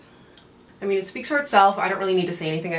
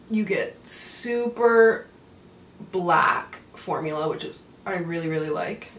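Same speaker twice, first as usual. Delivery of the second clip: mascara mouth; slower than usual. Real, not acted. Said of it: "do you hear me struggling to talk".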